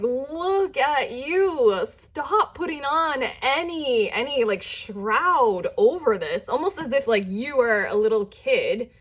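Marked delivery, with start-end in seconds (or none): 0.0-6.5 gentle urging. Retold or imitated. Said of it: "to just be like".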